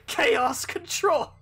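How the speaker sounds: slow, drawn-out villain call; shadow voice. Acted. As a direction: stretch it out like an edgy antihero. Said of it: "give him the shadow voice".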